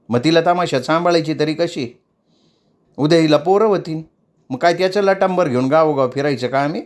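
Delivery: mildly stern mother figure; stern lecturing. Acted. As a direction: lay down the law to the girl. Shevanta explains heatedly.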